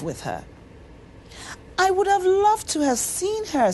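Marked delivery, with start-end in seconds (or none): 1.8-3.7 higher, wistful and far-off; dreamy. A narrator's reading. Servant girl to friends about the mystery girl, dreamily. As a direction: sigh it out like a daydream. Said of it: "said Aniowo dreamily".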